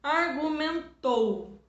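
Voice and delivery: argumentou drawn out slowly, syllable by syllable; teacher spelling out argumentou slowly; slow syllable demo. Shown as a demonstration. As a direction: stretch argumentou slowly so each syllable is heard. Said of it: "Então, por exemplo".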